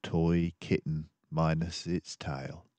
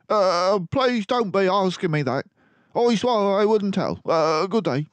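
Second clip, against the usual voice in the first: terrified messenger; 8 dB louder than usual. Acted. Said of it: "In great terror".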